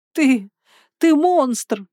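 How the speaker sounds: громко и высоко, с нарастающей яростью; брось обвинение злодею криком; гневный крик. A narrator's reading. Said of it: "закричала я". (героиня кричит на злодея, гневно и громко)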